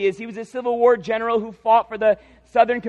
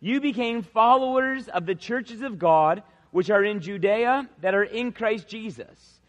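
scripture reading. Acted. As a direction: read the verse out solemnly, word by word. Reads scripture aloud.

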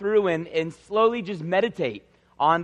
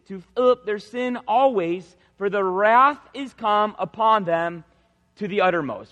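scripture reading. Acted. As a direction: read the verse out solemnly, word by word. Reads scripture aloud.

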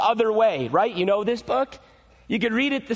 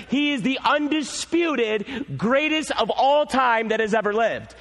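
slow, emphatic preaching build; slow, rising pulpit proclamation; preaching at full force; 3 semitones higher, slower than usual. Acted. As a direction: hammer each claim slowly home. Preaching climax.

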